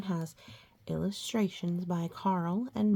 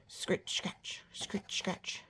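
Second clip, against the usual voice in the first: whispered sound effect; 9 dB quieter, slower than usual. A narrator's reading. Hoe sound imitated.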